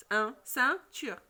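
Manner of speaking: "ceinture" slowly, its first nasal vowel isolated; sound picked out. Shown as a demonstration. Teacher tests pupils' ear for "un", slow syllabled "ceinture". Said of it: "Vous entendez le son un?".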